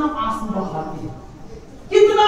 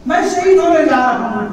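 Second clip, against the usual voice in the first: louder, higher grieving repeat of शहीद; rising grief; 3 semitones higher, 6 dB louder than usual. Acted. Father repeats to his daughter that he will die, louder and aching. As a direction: let शहीद ring out in grief. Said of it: "मौला हुसैन कहते".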